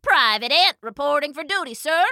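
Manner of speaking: high, crisp little soldier; little piping ant. A narrator's reading. Little ant reporting to Kemba for duty, piping voice. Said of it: "he piped in his little voice".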